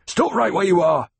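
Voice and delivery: high, loud command; snapped order. A narrator's reading. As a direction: snap it to halt him in his tracks. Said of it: "Gurney snapped".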